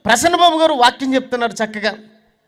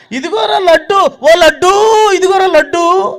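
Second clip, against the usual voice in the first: high, louder, crying offer; tearful mother; 6 semitones higher, 7 dB louder, slower than usual. Retold or imitated. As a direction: hold out the sweet with a breaking voice. Mother offering sweet to son.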